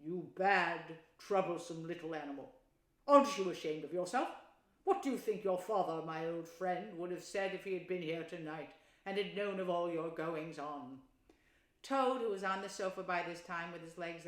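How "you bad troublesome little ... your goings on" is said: severe scolding. Acted. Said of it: "he said severely".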